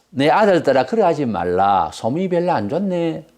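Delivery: mock half-hearted fatherly reproof, low-key; too-mild rebuke. Priest Eli chiding his wayward sons, feebly and mildly. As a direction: imitate a lenient father barely scolding. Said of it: "이런 톤으로 말할 처지냐고".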